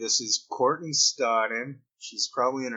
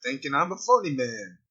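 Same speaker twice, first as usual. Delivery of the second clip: mock Southern drawl; 3 semitones higher, 3 dB louder than usual. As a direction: poke fun in a hint of a Southern accent. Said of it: "someone from the South will go".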